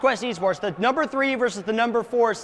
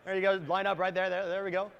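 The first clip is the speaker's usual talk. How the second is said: off-mic calling, softer and laughing; calling from far away; 4 semitones lower, 9 dB quieter, faster than usual. Real, not acted. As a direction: call players over from afar. Directs players, away from mic.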